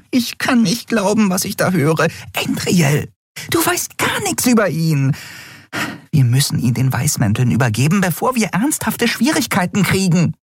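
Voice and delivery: hohe, aufgeregte Frauenstimme; hoch und empört, fassungslos; aufgebrachte Freundin. Acted. Nelen voiced high. (hohe, empörte Stimme der Freundin)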